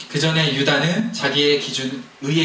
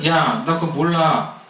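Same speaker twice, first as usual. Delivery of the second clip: drawn-out denial, playing dumb; slow mock denial; 4 semitones higher, much slower than usual. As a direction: shrug it off slowly as Judah. Judah feigning ignorance. (느릿하게 시치미 떼는 유다)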